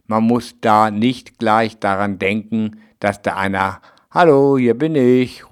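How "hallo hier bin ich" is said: light call of hello. Retold or imitated. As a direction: call out a cheerful greeting.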